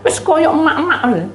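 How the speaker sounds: high comic tearful voice; mock crying. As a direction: tip into an imitated wail. Describes and imitates tearful friend.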